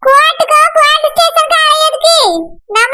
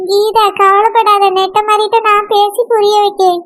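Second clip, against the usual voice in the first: consoling friend; 5 semitones lower than usual. Acted. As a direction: soothe a crying friend, low and unhurried. Friend Alamelu consoles crying Geetha.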